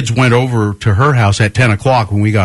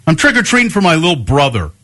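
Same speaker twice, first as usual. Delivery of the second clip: higher, quick, put-on defensiveness; imitated attitude; 5 semitones higher, faster than usual. Older trick-or-treater excusing himself to homeowner, imitated attitude. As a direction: rattle it off with mock attitude. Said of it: "he had, like, this attitude".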